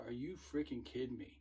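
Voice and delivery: cannot believe what he just heard; retold disbelief. Recruiter to recruit who smacked his girlfriend, stunned anger.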